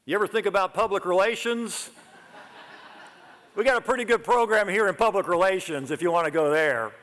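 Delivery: imitating a mentor's lazy Southern drawl with a laugh. Speaker imitates his old professor steering students to PR, Southern drawl. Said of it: "in his southern drawl".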